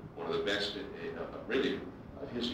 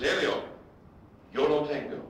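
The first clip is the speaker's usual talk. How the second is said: proud announcement; 5 semitones higher, 5 dB louder than usual. Retold or imitated. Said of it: "and he says".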